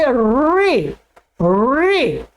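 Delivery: री with a long rolled r; correct trilled r. Shown as a demonstration. Teacher replacing the wrong forms, trilled r. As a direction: roll the r in री well before the vowel. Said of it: "री और रू को हटा करके".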